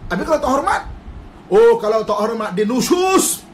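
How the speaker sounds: hammed-up outrage at a disrespectful wife; mock angry husband. Preacher mimics an indignant husband condemning his wife.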